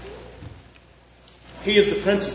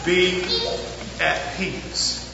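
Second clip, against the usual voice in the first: 1 gentle voice of God; much slower than usual. Retold or imitated. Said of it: "God said".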